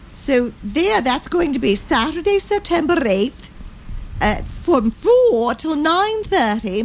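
lilting storybook granny voice; Mother Goose voice. Pretend. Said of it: "you have to do it in Mother Goose's voice".

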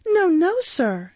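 put-on high, loud child's tearful cry; sobbing plea. A narrator's reading. Boy clinging to the beadle's hand, acted sobbing plea. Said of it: "sobbed Oliver".

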